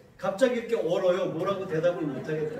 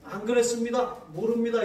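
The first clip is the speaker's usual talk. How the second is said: louder and higher stubborn denial; defiant denial; 4 semitones higher, 4 dB louder than usual. Retold or imitated. Politician denying the allegations, defiant. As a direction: deny it flatly like a cornered politician. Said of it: "뉴스를 보면 정치인들".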